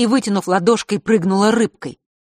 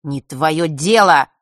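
curt retort; 7 dB louder, slower than usual. Acted. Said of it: "отрезал Фэш".

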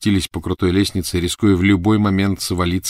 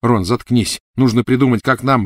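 urgent command; 5 semitones higher, 4 dB louder than usual. Acted. Harry hushes Ron urgently.

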